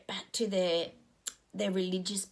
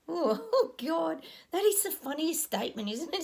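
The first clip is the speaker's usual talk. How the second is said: laughing; 7 semitones higher than usual. Real, not acted. Laughing at own joke.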